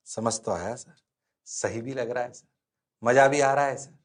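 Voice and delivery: low, soft pupil voice; meek student. Acted. Students assuring the teacher they understood, meekly. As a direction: answer softly like a cowed student.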